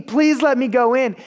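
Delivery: mild retold plea; a touch of begging, voice lifted slightly; pleading. Student asking the dean to let him in, lightly pleading. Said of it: "he was pleading with the dean".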